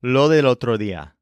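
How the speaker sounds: "Lo del otro día" with both Ds softened almost away; loose, barely touched Ds in "Lo del otro día"; lazy Ds. Shown as a demonstration. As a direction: say "Lo del otro día" run together, Ds half-made. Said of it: "lazy letter Ds in it".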